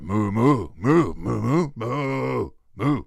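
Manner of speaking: mooing as if in speech; expressive moos rising and falling like sentences; talking cow. Acted. Cow comes over to talk to the herd, expressive mooing. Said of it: "one cow comes over and he's like".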